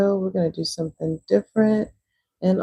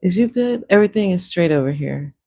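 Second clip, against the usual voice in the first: voicing the dog; 2 semitones higher, 4 dB louder than usual.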